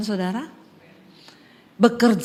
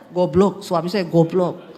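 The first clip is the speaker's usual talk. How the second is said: mocking devil; 6 semitones lower, 3 dB louder, slower than usual. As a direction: lower sneering demon voice, slowing on the last words. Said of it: "Sambil giniin saya".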